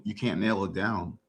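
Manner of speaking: usual speaking voice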